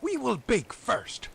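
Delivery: high, loud, slow witch. A narrator's reading. Witch telling Grethel to bake, high loud slow voice. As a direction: announce it like a scheming witch. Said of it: "said the old woman".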